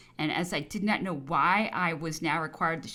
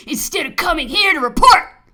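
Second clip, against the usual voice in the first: high, furious shouted reprimand; abusive shout; 9 semitones higher, 16 dB louder than usual. A narrator's reading. Governor abusing the officer for not reporting, furious shout. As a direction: explode into a scolding shout. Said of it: "followed up by a volley of abuse".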